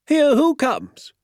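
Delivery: high, drawn-out puzzled cry; excited query. Acted. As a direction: ask in a high, stretched voice. Excited doctor asks who is coming.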